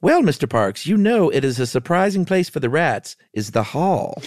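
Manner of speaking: housekeeper Missus Bunch. Acted. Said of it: "Missus Bunch is transforming".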